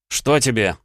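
loud, high irritated snap; snapping bark. Acted. Doctor snapping at the colleague who interrupts him. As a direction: snap at him without turning. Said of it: "рявкнул я".

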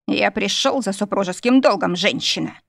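ordinary delivery

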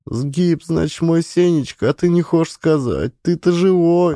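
high grieving voice of a widow; sobbing. A narrator's reading. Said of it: "рыдал Маришка".

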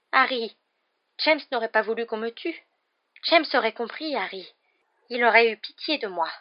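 high, insistent begging; pleading for life. Acted. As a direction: plead for mercy. (imploration plaintive)

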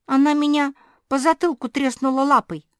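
high, loud indignant complaint; indignant report. A narrator's reading. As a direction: blurt out how she got smacked. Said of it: "сообщила Жози".

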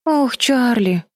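drawn out with pity and sorrow; tearful sigh. A narrator's reading. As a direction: sister near tears, slowly. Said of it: "произнесла Бетти. На глаза навернулись слёзы".

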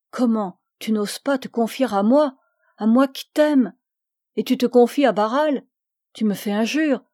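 a lover's wounded protest, rising a little; hurt reproach. Acted. Augustin to Fanny, wounded she confided in Barral. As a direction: push back, stung that she hid it.

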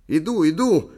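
loud, high shout to someone far off; calling out. A narrator's reading. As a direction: shout that help is coming. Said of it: "крикнул мистер Эйб". (громкий крик издалека)

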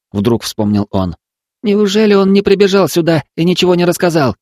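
put-on high, earnest boy's telling; urgent boy. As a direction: press the story on her.

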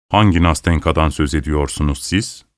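plain reading voice

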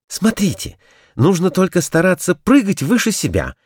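high, eager demonstration; excited showing off. A narrator's reading. Kurilka showing the toys his dance, high. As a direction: show off the dance. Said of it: "закричал Курилка".

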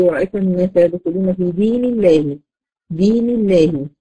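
دين الله with a light, thin lam after the kasra; thin lam demo. Shown as a demonstration. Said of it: "بكسر".

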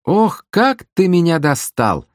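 high, slow exasperated call; fed up, call back from across the room; annoyed barmaid answering across the hall; irritated. Acted. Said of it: "раздражённый голос с другого конца зала".

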